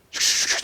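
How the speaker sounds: repeated whooshing noises; imitated sling whirl. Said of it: "돌려가지고".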